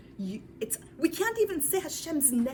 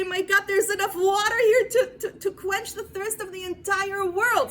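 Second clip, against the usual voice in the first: loud, high cry of wonder; amazed exclamation; 7 semitones higher, 7 dB louder than usual. Acted. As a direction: proclaim it as if overwhelmed. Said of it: "You say".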